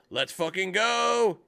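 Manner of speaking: urgent hushed shout; whisper yelling. A narrator's reading. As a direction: shout it under your breath, slowly. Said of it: "he whisper shouted".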